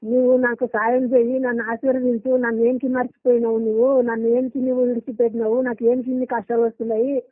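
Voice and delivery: mild earnest appeal to God, voiced for the interviewer; prayer recital. Shown as a demonstration. Man recites his prayer on request, lightly pleading. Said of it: "కొంచెం ఆ ప్రార్థన చెప్పు క్లుప్తంగా".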